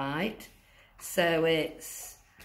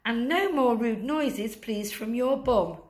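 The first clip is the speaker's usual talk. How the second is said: higher urging elf; 4 semitones higher than usual. Acted. Elf telling Santa to run and stop the rude noises, urgent. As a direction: hurry him along, scolding a little. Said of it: "the elf says".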